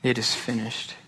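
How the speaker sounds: soft, breathy final words; quiet dying cry; hushed cry. Acted. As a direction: let it out like a last breath. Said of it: "And his cry is".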